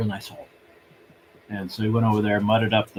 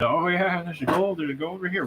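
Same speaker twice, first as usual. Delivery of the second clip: higher-pitched mock excitement; imitated excitement; 8 semitones higher than usual. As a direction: imitate someone all excited, pitch raised. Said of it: "he was all excited".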